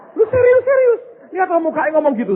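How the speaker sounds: seruan heran bernada tinggi, keras dan cepat; heran tak percaya. Retold or imitated. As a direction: tirukan reaksi tak percaya dengan suara melengking naik. Menirukan reaksinya sendiri yang heran. (kaget tak percaya, suara tinggi)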